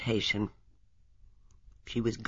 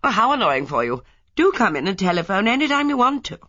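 civil and polite; 8 semitones higher, 5 dB louder than usual. A narrator's reading. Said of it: "She responded civilly".

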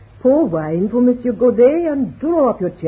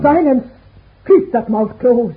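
angry command; 3 dB louder than usual. Acted. Mother cuts off the visitor.

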